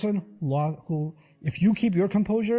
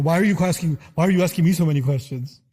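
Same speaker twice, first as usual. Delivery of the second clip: louder, suspicious demand; a defensive, raised "why are you asking"; defensive challenge; 5 dB louder than usual. Retold or imitated. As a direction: push back hard on the questioner.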